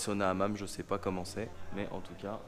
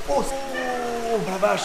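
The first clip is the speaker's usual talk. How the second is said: gasping from the cold plunge; shocked by icy water; in ice cold water; 8 semitones higher, much slower than usual. Real, not acted.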